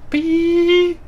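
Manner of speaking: long high beep with the voice; imitated beep. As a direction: mimic a button's drawn-out "peep". Imitates button beep while playing.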